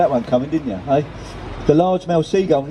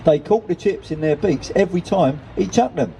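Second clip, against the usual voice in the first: put-on old lady reminiscing in a higher, lilting pitch; lightly voiced old lady; 4 semitones higher than usual. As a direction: tell a well-worn family anecdote as the old lady. Old lady continues her tale.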